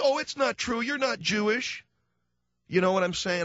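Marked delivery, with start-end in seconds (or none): 0.0-1.9 high-pitched movie mom; imitating a soothing mother; consoling mother. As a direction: reassure a crying child in a raised voice. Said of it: "the little boy comes home and he's crying and the mother".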